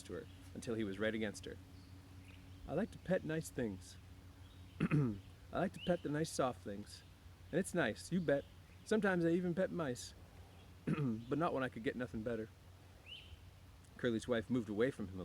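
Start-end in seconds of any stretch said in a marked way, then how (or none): 2.7-12.5 put-on childlike worried Lenny; Lenny's voice. A narrator's reading. Lenny on soft things.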